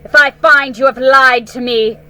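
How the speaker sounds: loud startled outburst turning to threat; the queen shocked, then menacing; alarmed cry. Acted. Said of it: "cried the queen".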